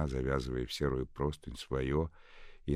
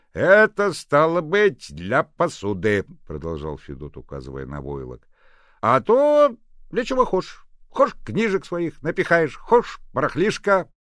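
much louder, higher, slow folksy; rustic old man; 14 semitones higher, 14 dB louder than usual. A narrator's reading. Fedot explaining the chest, folksy and loud. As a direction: talk like a proud village handyman.

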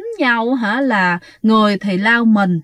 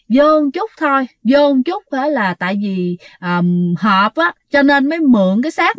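lightly imitating a possessed woman's effortful speech; strained, halting; 2 semitones higher than usual. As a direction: squeeze out the phrases with hesitant breaks. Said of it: "mà nói không có được mà trơn tru". (giả giọng rặn, nói không trơn tru)

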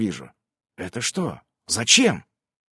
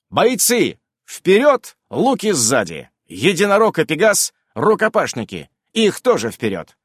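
shouted orders; 4 semitones higher than usual. Acted. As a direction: bark orders across the field. Hero orders his army forward.

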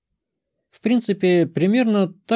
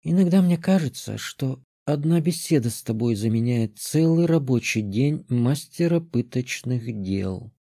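thoughtful; 3 dB quieter than usual. Acted. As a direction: ponder it aloud quietly. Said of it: "подметила Карамелька задумчиво".

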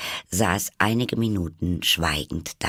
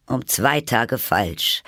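slow, higher-pitched sighed dismay; sighing; 7 semitones higher, 4 dB louder, slower than usual. A narrator's reading. Hatter finds his watch is wrong, sighing. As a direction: open on a sigh, then lament. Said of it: "seufzte der Hutmacher".

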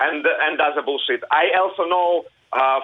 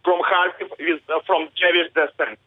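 raised, insistent correction; passionate; 3 semitones higher than usual. Real, not acted. Kharkiv man correcting the interviewer, passionately insistent. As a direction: set the record straight, heated but controlled. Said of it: "I can hear the passion in your voice".

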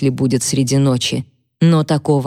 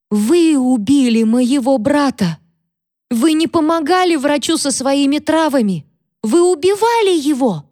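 hysterical accusation; 9 semitones higher than usual. Acted. Catherine accuses Mary of killing her brother in a very high voice. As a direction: scream the accusation in horror.

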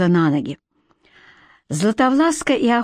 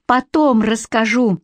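calling out; 2 semitones higher than usual. Acted. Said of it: "выкрикнула Златовласка".

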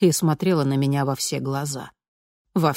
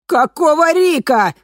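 much higher, louder slow shout; 11 semitones higher, 9 dB louder, slower than usual. A narrator's reading. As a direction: scream it at her. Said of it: "закричала она". (крик, гораздо выше и громче)

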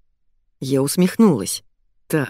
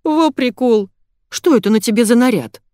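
put-on excited girl; 6 semitones higher, 5 dB louder than usual. Manya laughs at outfit.

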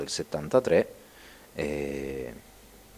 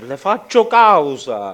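loud, slow, higher put-on threat; mock legal threat; 9 semitones higher, 11 dB louder, slower than usual. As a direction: announce the lawsuit with mock gravity. Joking threat of lawsuit.

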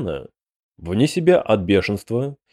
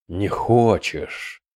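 almost tender; 2 semitones lower, much slower than usual. A narrator's reading. Prince asking the yawning demon, almost tender. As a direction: ask slowly, with understated false tenderness. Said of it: "почти ласково спросил Худай Шидан".

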